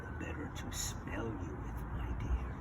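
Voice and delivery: a sly storybook wolf, barely voiced; wolf posing as Granny. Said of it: "the wolf says".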